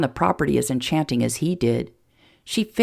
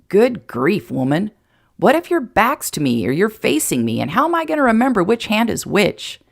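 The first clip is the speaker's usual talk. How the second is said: baffled man, rising to a higher complaint; mock exasperation; 5 semitones higher, 3 dB louder than usual. Jason confused by Emma's hand signals, comically exasperated. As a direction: lively protest climbing in pitch.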